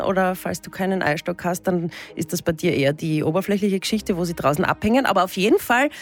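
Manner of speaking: mock solemn horoscope read over music. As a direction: deliver the absurd horoscope like a serious astrologer. Reads the horoscope machine's result.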